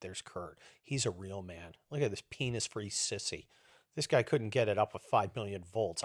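low, hushed remark; lightly imitating an under-the-breath comparison; admiring aside. Woman passing with her masked man, low admiring aside. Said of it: "The chick's going".

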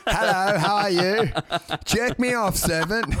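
mock posh British accent; hammed-up royal accent, amused. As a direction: put on an aristocratic greeting. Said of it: "he's got the posh royal voice".

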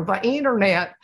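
lightly imitated Bush, leaning on "internet"; a hint of Bush stressing "internet"; light mock presidential "The internet"; George Bush impression. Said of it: "George Bush used to go".

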